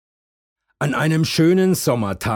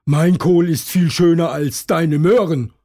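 high, louder rabbit voice; loud high-pitched rabbit bragging; Hasen Tom boasting back; 7 semitones higher, 6 dB louder than usual. A narrator's reading. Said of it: "ruft Hasen Tom".

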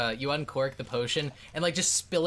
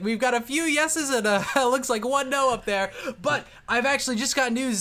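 booming high arena announcer; 11 semitones higher, 6 dB louder than usual. Acted. GM voicing the announcer to the arena crowd, booming. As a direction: hype up the crowd like a ringside MC. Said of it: "He's like".

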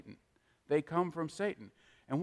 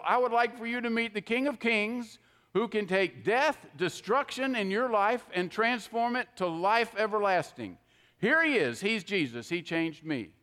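sincere witness demo; 3 semitones higher than usual. Shown as a demonstration. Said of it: "go up to someone and say".

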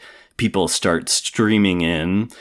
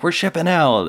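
lightly acted, high-pitched sergeant announcement; retold sergeant's order; 12 semitones higher, 4 dB louder than usual.

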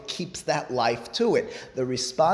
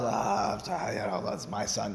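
softly imitating a proud father; quiet, pleased sigh through a smile; understated fatherly pride, said as an aside; smiling pride; 4 semitones lower, 6 dB quieter than usual. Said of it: "so he'll smile".

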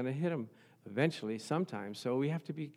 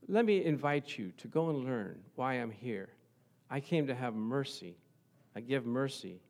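soft invitation. Acted. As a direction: invite them in without reproach. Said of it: "more softly than we would".

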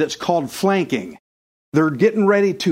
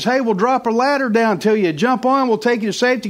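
rescuer voiced higher, calling down; helicopter rescuer, high; 4 semitones higher than usual. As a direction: call down from the helicopter in a raised voice.

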